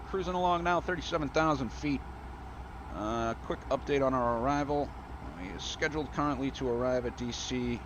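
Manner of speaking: upbeat, lifted PA voice to passengers; captain's cheerful cabin address; airline pilot announcement. Real, not acted.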